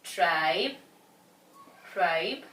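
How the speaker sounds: "tribe" said alone and firmly, twice; stressed first syllable. Shown as a demonstration. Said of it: "we are going to stress the first syllable".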